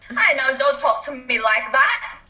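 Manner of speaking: put-on slow, botched British accent gone Scottish; badly faked British sliding into Scottish; accidental Scottish lilt; Scottish-sounding accent. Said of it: "There's the Scottish one".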